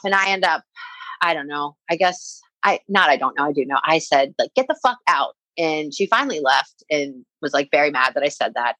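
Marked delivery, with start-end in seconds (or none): 4.5-5.4 retold passionate outburst. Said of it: "I said that passionately".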